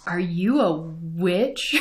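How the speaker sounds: put-on soft, slow, wide-eyed whisper of a boy; a little boy leaning in with a sudden suspicion, quietly and slowly; awed, hushed question, drawn out; hushed slow kid voice. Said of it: "he's like".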